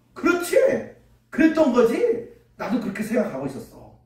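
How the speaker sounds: put-on high, pleased young king; smug agreement. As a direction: gloat that he knew it all along. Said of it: "그렇게 이야기하면서". (높은 목소리로 우쭐하게 맞장구)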